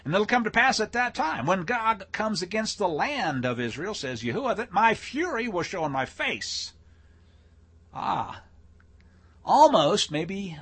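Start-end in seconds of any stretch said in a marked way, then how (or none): 0.1-6.7 raised-pitch declaiming of prophecy; emphatic scripture reading. Acted. Preacher reading God's fury against Gog, declaimed. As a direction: read the verse out with rising force.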